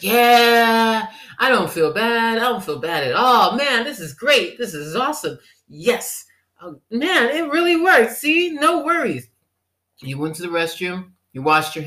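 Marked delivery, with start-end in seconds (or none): 0.0-9.3 high, loud, gleeful; mock elation. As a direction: gloat like it finally worked. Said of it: "You're like".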